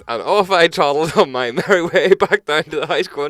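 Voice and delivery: high, loud singsong storytelling; exaggerated carefree lilt; mock merry. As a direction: skip through it with hammed-up glee. Mimics his carefree stroll after the prank.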